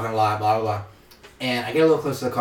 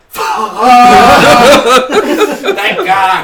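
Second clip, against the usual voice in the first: loud, higher laughing yell; laughing shout of relief; 11 semitones higher, 15 dB louder, slower than usual. Retold or imitated. Driver alone in the car, laughing shout. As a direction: let it burst out after the cop leaves. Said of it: "I'm like".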